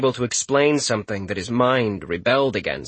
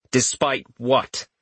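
icy; slower than usual. Acted. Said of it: "Richter asked with ice in his voice".

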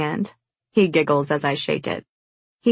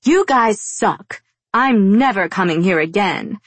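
high, loud angry outburst; angry, almost yelling; 4 semitones higher, 4 dB louder than usual. A narrator's reading. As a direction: storm off yelling at the staff. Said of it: "almost yells".

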